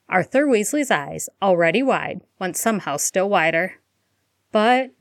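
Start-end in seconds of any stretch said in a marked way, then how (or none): 4.5-4.9 a hesitant stuttered but, higher; stuttering. Acted. Molly hesitating before Sirius, stuttered but. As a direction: falter on the first word. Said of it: "Molly stuttered".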